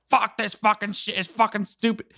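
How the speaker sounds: understated retold exasperation; retold angry rant. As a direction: imitate a pissed-off swearing fit without volume. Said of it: "I was so pissed".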